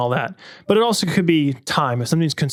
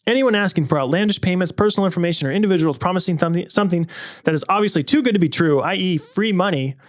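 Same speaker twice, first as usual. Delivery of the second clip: good narrator voice; 2 semitones higher than usual. A narrator's reading. Host reads his brother's scam story to listeners, clear narrator voice. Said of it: "in a good narrator voice".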